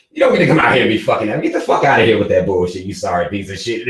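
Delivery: rapid-fire contemptuous scolding; fast scolding rant. Acted. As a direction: rattle it off with contempt. Mock scolding a mediocre kid.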